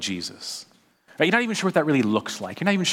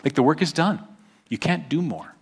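gentle God voice; 5 dB quieter than usual. Retold or imitated. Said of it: "God would say".

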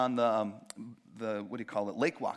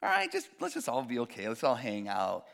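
mock appeaser; 2 semitones higher than usual. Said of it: "He's willing to not just say".

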